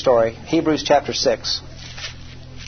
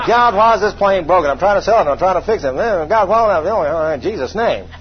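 mock grumbling prayer; complaining prayer. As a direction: whine at God, then tack on the closing. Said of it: "murmuring and complaining".

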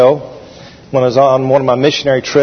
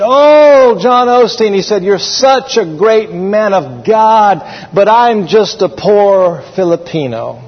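humble admirer; 4 semitones higher, slower than usual. Retold or imitated. Rudy humbly praising the evangelist.

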